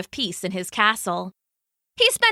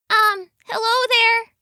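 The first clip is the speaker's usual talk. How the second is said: much higher, a timid little bug; tiny voice; 13 semitones higher, 3 dB louder than usual. Acted. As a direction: shrink the voice down to the tiniest bug. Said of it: "said a tiny voice".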